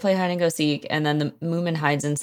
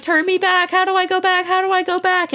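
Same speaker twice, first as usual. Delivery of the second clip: very high-pitched mock panic; freaking out; 14 semitones higher than usual. Moomin begging to be changed back, panicked squeal. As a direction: imitate a hysterical plea, pitched way up. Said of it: "He's freaking out".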